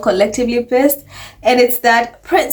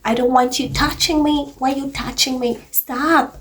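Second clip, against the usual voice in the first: mock William snapping; 2 semitones higher, 4 dB quieter than usual. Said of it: "It's like".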